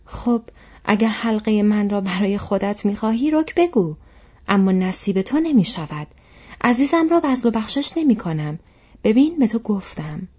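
loud, high accusing outburst; angry shout. A narrator's reading. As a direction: shout an accusation and refuse outright. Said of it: "فریاد زد و گفت".

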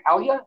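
Hela as a rising question; questioning "Hela", with a slight y-glide; unsure pronunciation. Real, not acted. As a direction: try Hela as "HEL-ya", voice lifting. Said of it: "not sure exactly how to pronounce".

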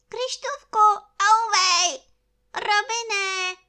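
very high, loud yelp for help; crying out. A narrator's reading. Stung bear on balloon cries to friend, high loud yell. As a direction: yelp in pain between the two halves of the name. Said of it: "zvolal mráček".

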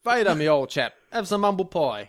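put-on jovial British old-chap greeting; lightly hammed-up British; mock British accent. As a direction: play a chummy Brit, H dropped. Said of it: "is Vader fucking British".

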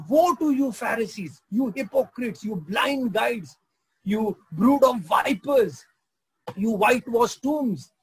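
loud, slow, stern denunciation, stretching each insult; rebuking woe. Retold or imitated. Preacher voicing Jesus denouncing the Pharisees, stern and slow. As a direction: thunder out woe, weighing every name. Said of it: "He says".

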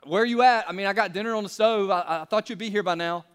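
mock irritated demand; annoyed wife's tone. Shown as a demonstration. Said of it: "a different tone could sound like this".

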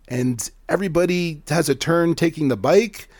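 put-on a boy making up an excuse on the spot; guilty little boy talking his way out; child fibbing. Zev fibs in child voice.

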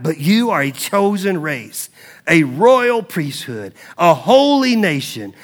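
slow, weighty proclamation with pauses; measured, solemn preacher's reading; scripture reading. Acted. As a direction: declare each title deliberately to the congregation. Reads scripture to congregation.

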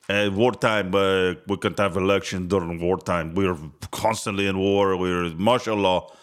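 a lightly put-on Russian Mexican accent, barely off his own voice; mocking Zelensky with a half-hearted Russian Mexican accent. Host mocking Zelensky's wartime excuse in a mild Russian Mexican accent. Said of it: "That's a Russian Mexican, uh, accent right there".

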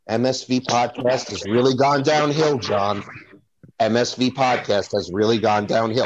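mock overacted line to John; dramatic movie line. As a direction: stiff movie dialogue, lightly voiced. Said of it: "nobody ever said that, like".

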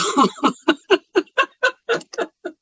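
rueful laugh at own mistake; embarrassed laugh. Real, not acted. Laughs after client hated work.

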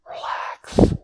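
breathy, hushed invitation to rest; soft relax. Retold or imitated. God telling the freed slaves to rest, hushed. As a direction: let it out like a sigh of ease.

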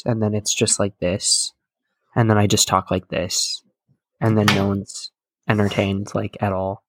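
flat robotic monotone, no inflection. Shown as a demonstration. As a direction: drone it like a bored robot. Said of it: "robotic monotone voice".

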